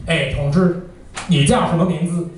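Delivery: casual Mandarin chatter; Mandarin speaker impression. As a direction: rattle it off like a local Mandarin speaker. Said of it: "it actually sounds more like this".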